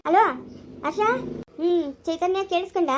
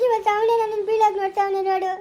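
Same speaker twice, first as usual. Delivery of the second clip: crying; 3 semitones higher than usual. Acted. Wife crying over husband.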